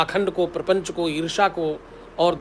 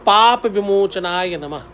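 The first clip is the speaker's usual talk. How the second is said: slow dictation; 3 dB louder, slower than usual. Shown as a demonstration. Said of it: "सबसे नीचे लिखना है".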